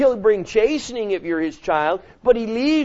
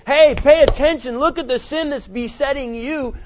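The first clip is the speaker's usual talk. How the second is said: wrong version, pointing at others; 4 semitones higher than usual. Retold or imitated. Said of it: "Paul didn't say".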